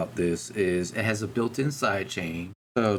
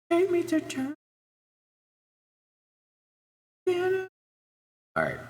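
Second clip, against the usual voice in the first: church reverb; much slower than usual. Shown as a demonstration. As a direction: voice echoing in a huge church. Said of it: "This one's called Church".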